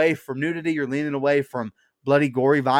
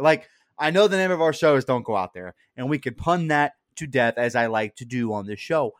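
normal talking voice

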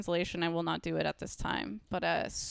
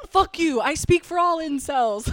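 laughing, louder mock incel rant; jokingly voicing an incel who is coming for Bailey, louder and laughing; 8 semitones higher, 9 dB louder than usual. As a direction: ham up an angry incel while laughing. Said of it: "like, hypothetical incel".

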